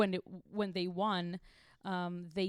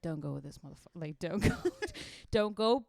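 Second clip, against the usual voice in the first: inner warning voice; 4 dB louder than usual. Retold or imitated. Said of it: "your inner, you know, woman voice is like".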